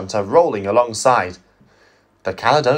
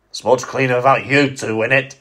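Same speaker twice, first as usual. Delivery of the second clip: fizzing snide. Acted. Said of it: "fizzed an H S T".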